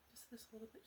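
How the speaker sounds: soft breathy coax, barely voiced; coaxing whisper. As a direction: hush them in closer, a little bit. Coaxing the frightened guest.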